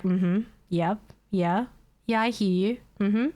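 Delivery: calm, even agent voice; unbothered and polite. Retold or imitated. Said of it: "While she's screaming at me".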